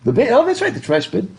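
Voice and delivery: high, lightly British bin; mock British bin. Shown as a demonstration. Teacher confirming a student's question in mock British. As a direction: toss off bin like a Brit. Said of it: "the trash can is the bin?".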